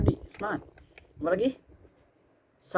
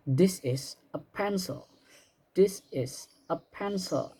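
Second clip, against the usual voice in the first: slow model sentence; 4 semitones higher, 3 dB quieter, slower than usual. Shown as a demonstration. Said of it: "misalnya kita ingin menunjukkan".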